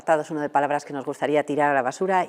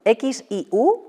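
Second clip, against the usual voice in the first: slow, drawn-out letters, slightly higher and louder; spelling back; 7 semitones higher, 5 dB louder, much slower than usual. Real, not acted. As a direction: repeat each letter slowly to check. Repeats the spelling while writing. (deletreando despacio para comprobar)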